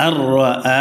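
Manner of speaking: আ held long after আর র; one-alif stretch. Shown as a demonstration. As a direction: lengthen the আ evenly after আর র. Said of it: "এক আলিফ টান হবে".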